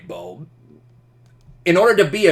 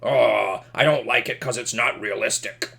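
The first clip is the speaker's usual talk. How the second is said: mock whiny moviegoer, softer; whiny complaint; 4 semitones lower, 4 dB quieter than usual. Picky moviegoer complaining about realism, mildly whiny. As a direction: whine it like a fussy critic. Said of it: "they complain all the time".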